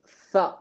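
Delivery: சா as a lisped th, tongue touching below the upper teeth; tongue under upper teeth. Shown as a demonstration. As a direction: soften சா into th against the upper teeth. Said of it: "மேல் பல்லனுடைய கீழே பட்டு".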